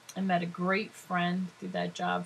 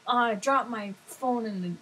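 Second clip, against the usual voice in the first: louder, higher mock complaint; imitated upset caller; 3 semitones higher, 5 dB louder than usual. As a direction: lightly whine like a customer with a problem.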